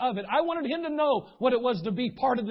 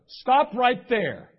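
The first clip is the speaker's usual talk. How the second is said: mock stern stop; 3 semitones higher, 8 dB louder, much slower than usual. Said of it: "I don't go".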